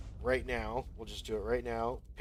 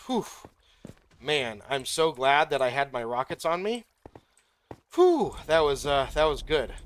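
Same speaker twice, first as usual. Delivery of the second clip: real relief; 3 semitones higher, 7 dB louder than usual. Real, not acted. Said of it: "I'm, like, shaking right now".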